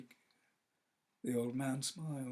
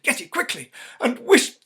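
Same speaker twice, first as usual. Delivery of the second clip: desperate plea; 15 dB louder than usual. Acted. Wife pleads for her dead boy, high and anguished. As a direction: beg through anguish.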